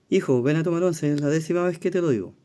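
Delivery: father calling. Acted. Father calls son to tea.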